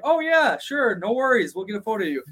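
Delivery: put-on a high, sing-song girly voice, lightly done; imitating the girls. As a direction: mimic the girls brightly chirping yes. Voicing the Mexican girls.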